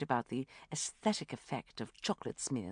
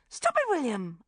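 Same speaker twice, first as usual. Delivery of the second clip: louder firm try at sternness; attempted authority; 9 semitones higher, 7 dB louder than usual. A narrator's reading. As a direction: try to sound in charge. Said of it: "with an attempt at authority".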